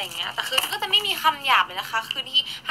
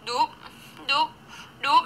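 chewing cheeks noise; 4 semitones higher, 3 dB quieter than usual. Shown as a demonstration. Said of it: "แก้มอย่างเงี้ย".

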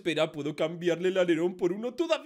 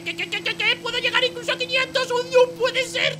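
high, loud disbelief; astonished; 14 semitones higher, 7 dB louder than usual. Acted. Driver discovers his car's top speed, astonished shout. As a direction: blurt it out, stretching the final exclamation.

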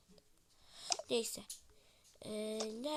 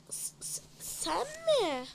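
shocked; 9 semitones higher, 5 dB louder, slower than usual. Acted. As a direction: stammer then shrill high disbelief. Shock at buyer. (şaşkınlıkla)

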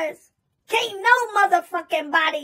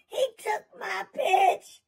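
mock sob; 3 dB quieter, slower than usual. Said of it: "He said".

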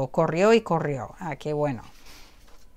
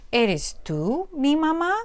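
a bit higher, slow and pleading; slightly raised chick voice; little bird voice; 6 semitones higher, slower than usual. Acted. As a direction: ask like a lost baby bird. Little bird asks the dog.

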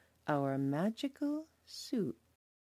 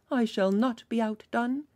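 louder proud call; cried out; 6 semitones higher, 4 dB louder than usual. Acted. Villager refusing to be outdone, calling louder. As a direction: declare it over the others. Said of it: "cried another".

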